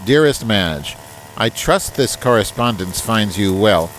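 email read aloud. Acted. Host reading a listener's email aloud on the podcast, in a formal reading voice. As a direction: read the letter out in a prim, proper tone.

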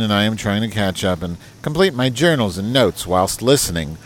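email read aloud. Acted. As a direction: put on a proper, correspondence tone. Reads listener email aloud.

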